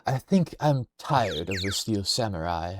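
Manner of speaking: a second, lightly put-on voice; retry the line without the accent; lightly voiced game character; different character voice. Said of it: "I need a different voice".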